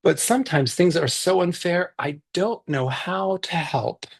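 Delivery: put-on reading a picture book aloud to kids; gentle read-aloud for a virtual story circle; story narration.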